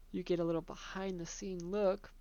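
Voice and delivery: words stretched by a stifled yawn; holding back a yawn. Real, not acted. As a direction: speak while fighting a yawn. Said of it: "but I'm trying not to yawn".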